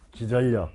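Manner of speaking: 기전력 said as "기절력"; model pronunciation. Shown as a demonstration. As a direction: say 기전력 with a held double L. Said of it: "이렇게 읽으란 말이야".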